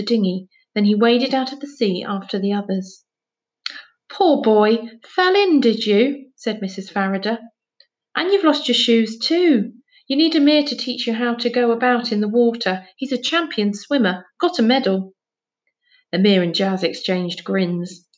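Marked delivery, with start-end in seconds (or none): 4.1-6.3 chattering, rising, fussing lady; fussy neighbour. Acted. Missus Farrader fussing over Finn. 8.1-15.1 chattering, rising, fussing lady; fussy neighbour. Acted. Missus Farrader keeps fussing.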